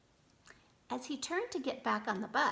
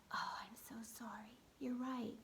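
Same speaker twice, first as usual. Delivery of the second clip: soft, subdued admission of fault; contrite apology; 8 dB quieter than usual. A narrator's reading. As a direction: own up quietly, humbled. Chastened girl apologizes.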